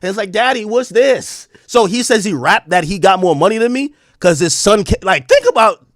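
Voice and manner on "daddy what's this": put-on higher, slower kid's question; curious child. Son showing dad a video, curious child. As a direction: ask like a puzzled little son. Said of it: "his son shows him some shit".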